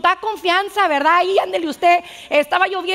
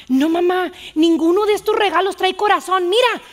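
put-on child's protest; 4 semitones higher, 4 dB louder than usual. Child Carlitos protests to mother.

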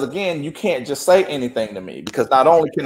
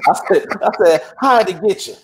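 real laughter breaking into the words; laughing; 2 semitones higher than usual. Real, not acted. Teller asking the client how the attorney got her, laughing. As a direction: ask it while still laughing. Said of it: "And I started laughing".

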